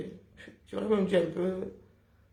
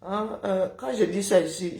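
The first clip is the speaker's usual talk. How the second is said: talking through a mouthful of water; words muffled by water; water held in mouth. Real, not acted. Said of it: "je parle avec l'eau dans la bouche".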